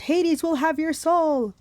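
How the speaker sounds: high, slow, drawn-out threat; threatening monster. Acted. Fury cursing Percy in defeat, high drawn-out threat. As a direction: stretch the curse out at high pitch.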